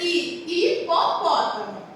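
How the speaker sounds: "I" sounded alone, then "hipopótamo" with silent H; sound demo. Shown as a demonstration. Teacher showing that H with I sounds as I, sounding-out demo. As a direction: isolate the vowel "I", then say "hipopótamo". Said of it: "formou esse som aqui".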